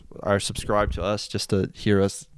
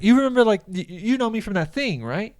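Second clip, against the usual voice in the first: high, breezy pretend recognition; a hint of a chirpy fake acquaintance; faking familiarity; 12 semitones higher than usual. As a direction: bluff that you know him, lightly. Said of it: "So I was like".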